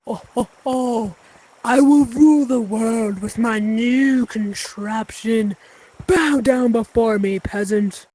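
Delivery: slow, hammed-up villain boast; megalomaniac rant. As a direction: gloat like a cartoon overlord. Villain skit, ruling the world.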